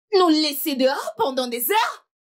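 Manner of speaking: indignant outburst. Acted. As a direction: throw the outrage at her.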